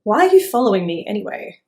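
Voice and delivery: fast, loud grumpy question; grumpy chicken. Acted. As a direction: fire it off impatiently. Chicken snaps.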